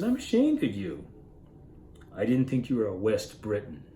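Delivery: a light teasing jab, acted lightly; needling. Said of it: "she needles him a little bit like this".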